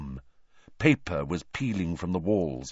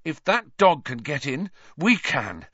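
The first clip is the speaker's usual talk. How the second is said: panting; 6 semitones higher than usual. A narrator's reading. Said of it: "Harry panted".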